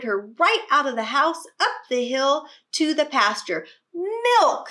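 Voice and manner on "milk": loud, much higher plea; children wail it out; hungry kids begging loudly. Acted. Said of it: "they begged".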